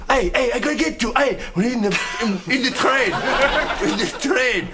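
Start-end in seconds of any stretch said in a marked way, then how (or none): 0.1-1.4 fast mock yell of a pursuer; retold yell. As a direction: shout it quickly like someone chasing you. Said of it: "people shoot".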